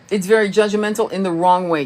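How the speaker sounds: usual speaking voice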